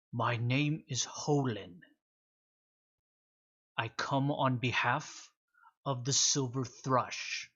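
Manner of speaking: slow, measured and imposing creature voice; solemn beast messenger. Acted. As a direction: speak down to them like an ancient envoy.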